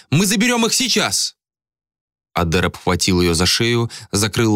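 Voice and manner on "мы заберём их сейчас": high insistent cry; stamping her will, desperate; frantic demand. A narrator's reading. Malika insisting on taking the children now, high and frantic.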